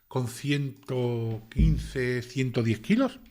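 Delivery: very slow, stretched incredulous question; drawn-out disbelief. Real, not acted. Asking viewers if they believe it, slow disbelief. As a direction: drag out quince in disbelief. Incredulous about claimed weight.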